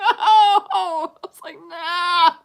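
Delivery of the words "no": high, loud no through laughter; refusing the ex, loud and laughing. Retold or imitated. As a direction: shout it, laughing at yourself. Repeated reaction, laughing.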